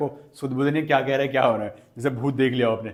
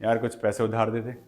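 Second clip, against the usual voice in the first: pleading request; 4 semitones lower than usual. Shown as a demonstration. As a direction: beg a friend for money. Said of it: "request". (दोस्त से पैसे माँगते हुए मिन्नत)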